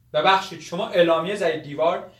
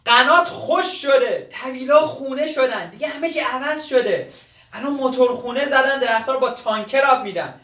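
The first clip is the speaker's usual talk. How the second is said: raised, higher-pitched exasperated explaining; impatient insistence; 3 semitones higher than usual. Acted. Young man tells old gardener times have changed, impatient. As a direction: drum it into him impatiently.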